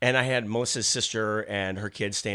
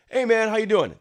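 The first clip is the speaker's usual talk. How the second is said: high, loud, easygoing hello; retold friendly greeting; 10 semitones higher, 6 dB louder than usual. Encampment people greeting a passing walker, friendly. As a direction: imitate a neighborly passer-by calling out. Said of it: "the people in the encampments, they're like".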